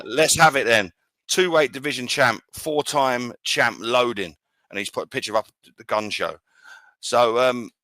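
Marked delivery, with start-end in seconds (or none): 0.0-4.4 slow, lightly put-on American accent. Boxing podcaster carrying on a fighter's post, slow mock American accent. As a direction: read it out slowly, a touch American. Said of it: "this is my American accent".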